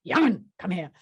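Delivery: put-on Glasgow summons; Glaswegian accent. Marion summoning young Barbara, Glaswegian accent. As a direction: beckon in lightly acted Glaswegian. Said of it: "She was from the Gorbals".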